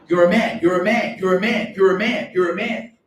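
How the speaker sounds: mock pestering on a rising loop; insistent repetition. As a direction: badger her with it, over and over. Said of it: "I said to her twenty times".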